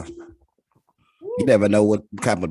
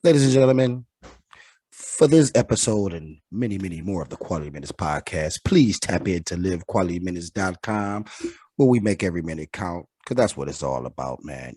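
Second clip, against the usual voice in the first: podcast sign-off announcer; big host outro read. Acted.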